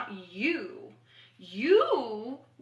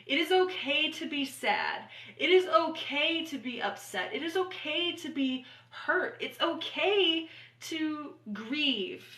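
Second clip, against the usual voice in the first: reassuring affirmations; 2 semitones higher than usual. Acted. Affirmations spoken to viewers.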